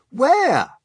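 high, loud eager cry; surprised. Acted. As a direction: blurt it out in surprise. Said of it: "they said".

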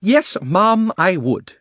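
high, loud indignant retort; temper breaking loose. A narrator's reading. Uncle Andrew finally answering the witch back, indignant temper. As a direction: fire back in affronted fury. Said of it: "temper at last got the better of his fears".

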